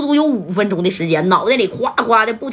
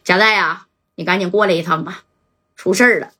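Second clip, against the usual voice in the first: low and hoarse; 3 semitones lower than usual. Acted. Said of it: "这回是贼低沉，而且有点沙哑的声音".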